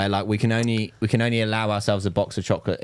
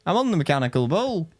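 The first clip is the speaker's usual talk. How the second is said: mock nan voice; 9 semitones higher than usual. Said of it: "She'd be like".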